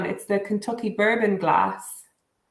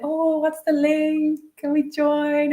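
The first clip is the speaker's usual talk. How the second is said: high, slow excited voicing; light imitation of keen friends asking to join; high eager mock question; eager colleagues; 8 semitones higher, slower than usual. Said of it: "they were like".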